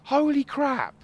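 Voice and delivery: high, loud burst of disbelief; shocked exclamation. Real, not acted. Reacting to the plane's rating, high loud shock. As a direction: blurt it out in real shock.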